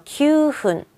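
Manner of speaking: "규훈" with long KYU and unforced HUN; relaxed pronunciation. Shown as a demonstration. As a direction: draw out "규", ease into "훈" without a stop. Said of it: "편안하게 읽어요".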